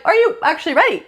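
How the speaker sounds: a knowing cosmic voice testing him; universe doubting Mark. Acted.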